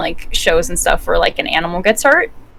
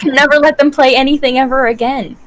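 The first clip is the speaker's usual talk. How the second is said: mildly hammed-up worried parent, pitched up; mock parental panic; 4 semitones higher than usual. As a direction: imitate an overreacting parent, a touch high. Imitating freaking-out parents, continued.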